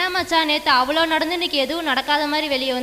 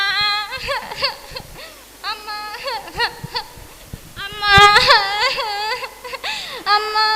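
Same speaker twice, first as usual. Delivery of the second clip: wailing அம்மா, pitched higher; crying for mother; 5 semitones higher than usual. Acted. Girl wailing for her mother after the assault, high sobbing cries. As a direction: cry out for her mother in pain. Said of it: "அழுதுகிட்டே இருக்கிற".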